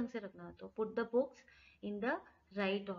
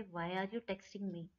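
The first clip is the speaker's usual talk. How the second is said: said slowly, word by word; slow teacher demo; slow model phrase; much slower than usual. Shown as a demonstration. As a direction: spell it out slowly for learners. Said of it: "कैसे बोलेंगे?".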